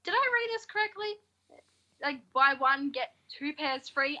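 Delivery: high, puzzled question from mum; a touch of mum asking in disbelief; mum's disbelief. Retold or imitated. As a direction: mum double-checking the shoe deal, high and puzzled. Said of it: "my mum went up to the person and she's like".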